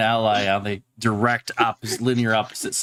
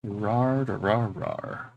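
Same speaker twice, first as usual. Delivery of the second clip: barbarian; 5 dB quieter, much slower than usual. Pretend. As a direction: snarl it like a brute warrior. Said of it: "Spoken like a true barbarian".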